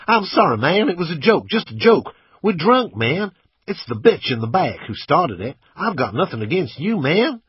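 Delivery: high, loud, frantic pleading; panicked babbling. A narrator's reading. Driver with pistol at his cheek, panicked babbling. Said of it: "the driver's mouth went into free wheel".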